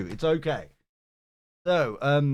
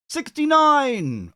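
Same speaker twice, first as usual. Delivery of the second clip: called out; 12 semitones higher, 4 dB louder, much slower than usual. Real, not acted. Calling next viewer to stage.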